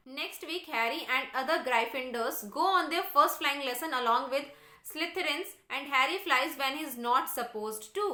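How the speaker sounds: slow, deliberate textbook read-aloud; measured classroom reading. Real, not acted. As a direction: read it out slowly for a class, word by word. Reads the English text aloud.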